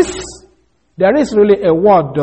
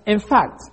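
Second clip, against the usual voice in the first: "in fact" set apart, dropping firmly on "fact"; emphatic IN FACT; 2 semitones higher than usual. Shown as a demonstration. Preacher giving the emphasis one more time, emphatic. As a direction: stress "in fact" as a separate unit. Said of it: "the emphasis one more time".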